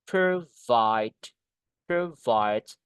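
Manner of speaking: low "Provide" split into two long beats, weight on "vide"; stress on second syllable. Shown as a demonstration. Teacher modelling a verb, low measured stress on "vide" in "Provide". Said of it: "di suku kata yang kedua".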